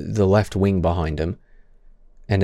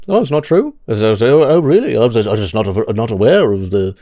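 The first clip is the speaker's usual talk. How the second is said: playing dumb; 4 dB louder than usual. Streamer mocking the interviewer's reaction to the correction, playing dumb. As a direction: feign innocent disbelief in a mocking imitation. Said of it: "he plays dumb".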